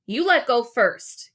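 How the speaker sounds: a touch of a bossy order, a bit slow. Acted. Gary telling Wally to go first, firm order. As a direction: tell him firmly. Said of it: "Gary ordered".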